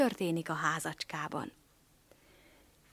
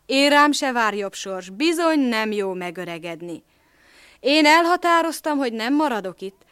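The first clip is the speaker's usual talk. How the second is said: put-on old donkey; 6 dB louder than usual. Donkey voiced in fairy tale.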